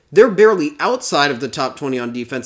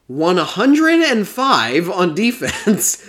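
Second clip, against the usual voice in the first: holding back a laugh; 3 semitones higher, 4 dB louder, much slower than usual. Real, not acted. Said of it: "I can't even say that with a straight face".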